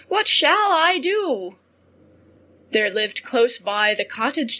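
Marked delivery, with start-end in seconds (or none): 0.1-1.6 higher-pitched storybook lament; acted dismay in a higher voice; crying out. A narrator's reading. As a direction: wail it as the helpless wife. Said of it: "cried she".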